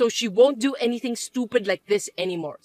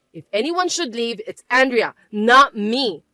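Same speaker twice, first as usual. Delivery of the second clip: spiteful insistence. Acted. Mother turning her son against his wife, spiteful. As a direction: press her case, landing hard on Andrea.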